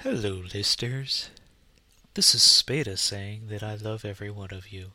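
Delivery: sleepy, medicated drone; spaced-out cold-medicine voice; drowsy on NyQuil. Real, not acted. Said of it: "way too much NyQuil today".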